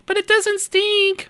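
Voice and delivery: high, slow mock wife voice; imitating his wife. Husband mocking his wife's excuse in a high slow voice. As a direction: whine it slowly like she does. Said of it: "That's what she always tells me".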